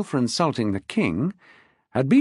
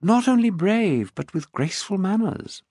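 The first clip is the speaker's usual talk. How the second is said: arch, amused; 8 semitones higher than usual. A narrator's reading. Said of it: "in an arch but amused way".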